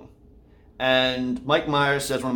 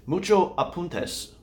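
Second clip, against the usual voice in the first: slow emphasis; 4 semitones higher, slower than usual. Shown as a demonstration. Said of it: "word of the day".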